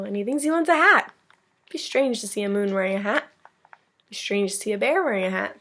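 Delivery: lively storybook reading to a class; picture-book read-aloud voice; reading to children. Acted. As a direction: read it like story time for kids. Teacher reads picture book aloud.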